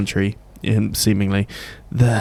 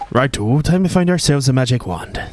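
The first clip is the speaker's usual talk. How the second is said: put-on Welsh accent; 4 semitones higher than usual. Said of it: "butcher the accent as being half Welsh".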